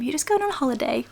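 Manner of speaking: lightly cooed reassurance, lifted pitch; mild pet-talk lilt. Retold or imitated. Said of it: "That's what I keep telling them".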